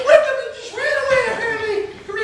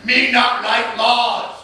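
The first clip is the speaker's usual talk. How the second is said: much lower, very slow monster voice; 13 semitones lower, much slower than usual. Acted. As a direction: rumble it out slow and dumb. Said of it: "the monster said in his voice".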